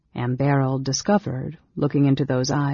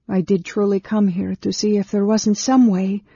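higher-pitched sincere insistence; earnest woman; 6 semitones higher, 4 dB louder than usual. A narrator's reading. Anne Beryl explaining why she came, earnest and high.

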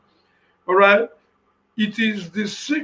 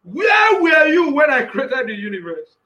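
God questioning Job; 3 semitones higher than usual. Retold or imitated. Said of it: "He asked Job".

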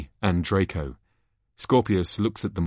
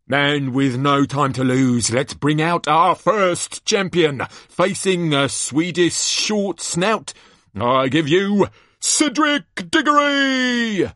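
booming showman, stretching the big names; hammed-up ringside introduction; excited tournament announcer; 10 semitones higher, 6 dB louder, slower than usual. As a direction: whip up the crowd, building to a loud high cry. Announcer brings out first champion.

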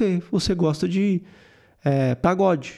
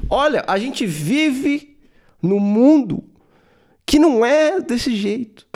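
mock indignant rant; 3 semitones higher than usual. Parodying the guy as self-pitying victim.

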